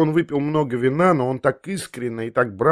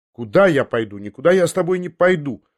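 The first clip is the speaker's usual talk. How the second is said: raised, challenging refusal; defiant cry; 4 semitones higher than usual. Acted. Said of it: "поспешил я крикнуть с вызовом".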